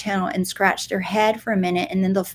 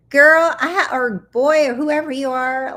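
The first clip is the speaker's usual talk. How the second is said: excited; 6 semitones higher, 6 dB louder than usual. Real, not acted. Excited at viewer's costume.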